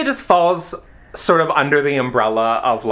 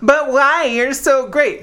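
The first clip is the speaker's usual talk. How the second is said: mock pleading; 10 semitones higher, slower than usual. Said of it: "people are like".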